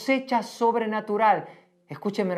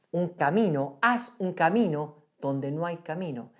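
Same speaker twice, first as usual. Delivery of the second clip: God's firm reply; 2 semitones lower than usual. Retold or imitated. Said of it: "Y el Señor le dice, claramente".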